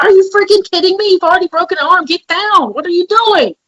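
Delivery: imitating her own angry outburst at her daughter; retold frustrated yell. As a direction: yell at a kid jumping on the bed. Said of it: "I wanted to yell, and I wanted to scream".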